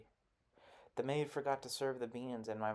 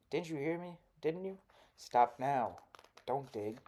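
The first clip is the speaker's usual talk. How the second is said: higher, sharp rising demand then loud stop; angry scolding; 3 semitones higher, 5 dB louder than usual. Acted. Missus Mean yelling at Toll to stop digging. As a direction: snap at the boy who won't listen. Scolding boy who ignores her.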